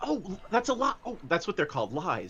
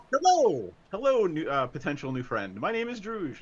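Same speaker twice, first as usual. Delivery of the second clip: eager greeting. Acted. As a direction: greet her like a puppy meeting a new friend. Druge greets stranger eagerly.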